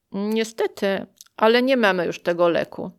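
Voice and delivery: fast, indifferent refusal; dismissive doctor's reply. Retold or imitated. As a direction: say it fast and without care. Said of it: "odpowiedziała obojętnie".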